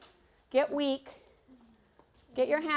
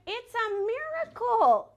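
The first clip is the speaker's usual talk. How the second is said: louder, higher, slower cry of wonder; amazed joy; 8 semitones higher, 5 dB louder, slower than usual. Acted. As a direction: announce the miracle in awe. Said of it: "and they said".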